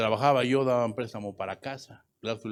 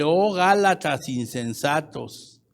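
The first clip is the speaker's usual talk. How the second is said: declaimed rebuke; 3 semitones higher, 6 dB louder, slower than usual. Retold or imitated. Quotes Paul's rebuke.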